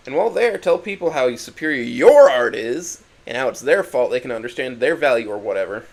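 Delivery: loud, mocking rant, slowed on the jab; angry tirade. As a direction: lay the sarcasm on loudly.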